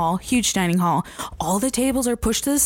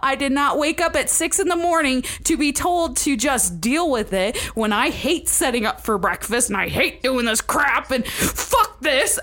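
high angry rant ending in laughter; retold furious rant; 6 semitones higher than usual. Counselor ranting at pranking staff, high mock fury.

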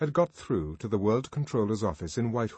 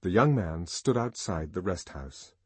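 ordinary delivery, nothing marked

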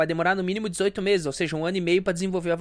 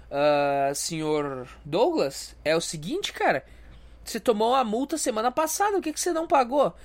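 mock cop. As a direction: drag out the cop's first words. Cop voice addressing Douglas.

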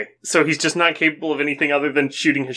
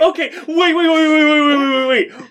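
excited wait; 10 semitones higher, 4 dB louder than usual. Real, not acted. Interrupting absurd story laughing.

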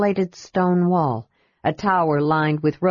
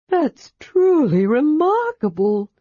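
sighing wonder; 9 semitones higher, 4 dB louder than usual. A narrator's reading.

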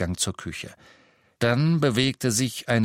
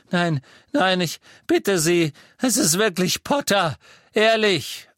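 frantic begging, much higher and louder; desperate to be believed; terrified father pleading; 8 semitones higher, 5 dB louder than usual. A narrator's reading. Xenophilius begs.

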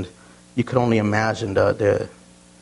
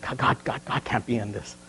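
inner cringe; 2 semitones lower, 8 dB quieter than usual. Retold or imitated. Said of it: "I'm like".

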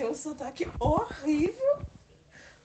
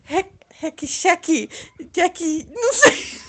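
put-on Rio accent; 2 semitones higher, 14 dB louder, slower than usual. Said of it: "sotaque de carioca".

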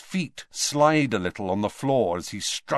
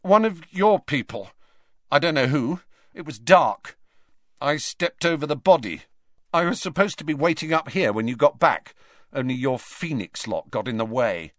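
put-on higher, louder nervous boy; panicky Malfoy; 6 semitones higher, 4 dB louder than usual. A narrator's reading. Scared Malfoy explaining to the headmaster, high and tense. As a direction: rattle it out, frightened.

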